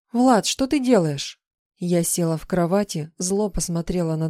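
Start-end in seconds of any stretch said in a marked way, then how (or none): 0.1-1.4 higher, louder, slow indignant question; angry demand. Acted. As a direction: confront him, furious and stunned. Heroine angrily confronts husband.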